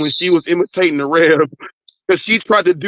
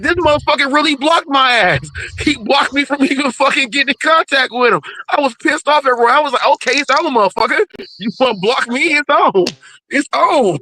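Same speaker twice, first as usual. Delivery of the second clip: pitched-up mock threat, half-joking; mock fighting words; 6 semitones higher than usual. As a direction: throw down the gauntlet, playfully. Retold declaring war.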